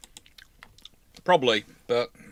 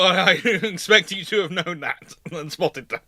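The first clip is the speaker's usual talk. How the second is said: laughing while teasing; 4 semitones higher than usual. Real, not acted. Teasing a regular viewer, laughing.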